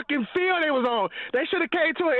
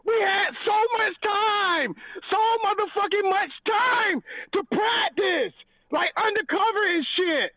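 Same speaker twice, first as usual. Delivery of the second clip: angry rant; 6 semitones higher than usual. Real, not acted. Ranting about lost game.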